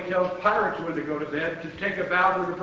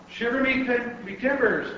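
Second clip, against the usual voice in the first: pirate; 6 semitones higher than usual. A narrator's reading. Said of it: "the pirate said".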